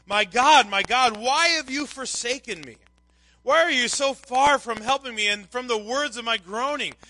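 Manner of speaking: loud opening cry, pitched a little up; anguished cry. Retold or imitated. Psalmist feeling forsaken cries to God, anguished. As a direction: cry out a lament to heaven.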